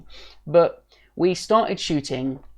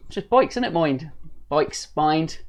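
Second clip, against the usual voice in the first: casual Bristol West Country twang, lightly done; quick Bristolian impression; Bristolian accent; slower than usual. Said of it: "if you say it in a Bristolian accent".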